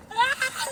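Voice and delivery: high effortful "ah"; strained cry. Pretend. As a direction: cry out with the strain of flapping fast. Straining to flap twenty times.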